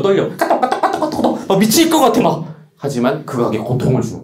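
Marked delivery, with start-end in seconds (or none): 0.4-1.5 very high, chirpy message notification; KakaoTalk alert. Acted. Phone alerts tempting a studying student, imitated KakaoTalk chime. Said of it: "일부러 카톡 소리". 1.5-2.5 high-pitched hammed-up desperation; mock frantic. Student hearing unread alerts while studying, mock frantic.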